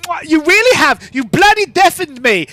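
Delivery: high, loud, offended complaint; indignant scholar. Acted. Deafened scholar scolding the gang girl. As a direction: splutter at her for the noise.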